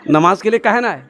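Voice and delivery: restrained questioning rebuke; mild reproach. Acted. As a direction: ask it reproachfully, holding back. Holy man scolds the mob, first take. (संयमित उलाहना)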